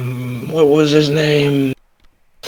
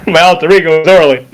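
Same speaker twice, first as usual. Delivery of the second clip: playful character impression; 2 semitones higher, faster than usual. Player showing off an alter ego, playful impression. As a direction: rattle it off in a put-on voice. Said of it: "that's not a bad impression".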